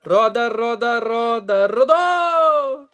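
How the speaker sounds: building sing-song game show chant, ending in a high shout; Silvio Santos. Retold or imitated. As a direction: chant it like a TV game show host, rising to a cheer. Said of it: "que nem o Silvio Santos no chat". (imitando o Silvio Santos, cantado e subindo)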